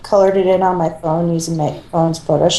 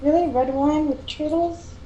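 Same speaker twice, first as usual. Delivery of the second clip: mock disbelief; 9 semitones higher, 7 dB quieter than usual. Incredulous joking.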